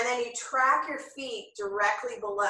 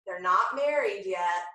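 laughing; 4 semitones lower than usual. Real, not acted. Joking about breath and movement.

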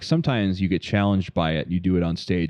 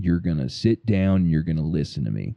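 Michael Douglas impression. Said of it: "Michael Douglas".

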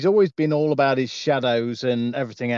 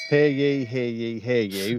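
lightly voiced town crier call; 3 semitones lower than usual. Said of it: "town crier to the apocalypse".

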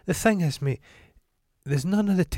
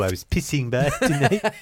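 higher-pitched comic French-English, laughing; mangled French accent; 4 semitones higher than usual. Retold or imitated. Host quoting a sitcom for laughs, comic mangled French accent. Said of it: "They've watched Hello, Hello".

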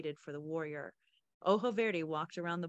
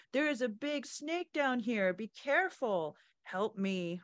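higher, louder pained groaning plea; fake wounded man; 4 semitones higher, 3 dB louder than usual. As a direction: play a hurt man crying for help. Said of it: "making her voice sound like a man's growling in pain".

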